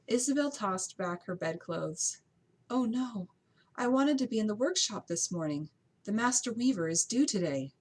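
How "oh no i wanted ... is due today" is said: higher, louder flustered dismay; upset at having overslept. Acted. Isabel dismayed, late for work.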